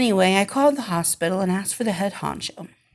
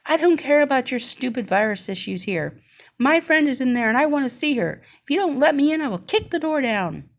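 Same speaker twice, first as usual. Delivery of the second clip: raised, high angry yelling; retold screaming; 5 semitones higher than usual. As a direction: shout it like a furious friend. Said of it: "I hear this voice screaming".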